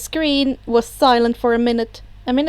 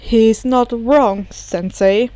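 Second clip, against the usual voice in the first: dry bartender voice; 2 semitones lower, slower than usual. Acted. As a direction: say it dryly. Kurogiri slow.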